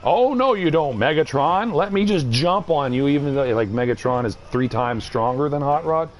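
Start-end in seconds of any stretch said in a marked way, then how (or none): 0.0-3.1 mock Hot Rod. Mocking Hot Rod as he jumps Megatron, cocky. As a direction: ham up a brash young hero.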